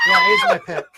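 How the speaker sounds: laughing. Real, not acted. The speaker laughing loud.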